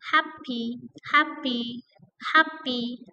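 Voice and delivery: Happy, HAP stressed. Shown as a demonstration. Teacher drilling adjective stress on happy. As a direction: hit HAP. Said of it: "stress on the first syllable".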